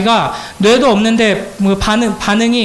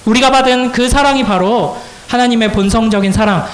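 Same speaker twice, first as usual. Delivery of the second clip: usual speaking voice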